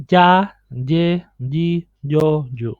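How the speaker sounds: each of "ja, ye, di, yo, you" opens like English J; syllable drill, Spanish Y close to English J. Shown as a demonstration. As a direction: recite "ja, ye, di, yo, you" with a J-like onset. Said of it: "It's similar to the J in".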